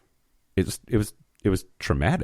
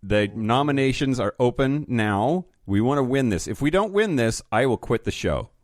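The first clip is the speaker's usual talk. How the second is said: mock tough demand; 3 semitones higher than usual. Mock-threatening plug for votes.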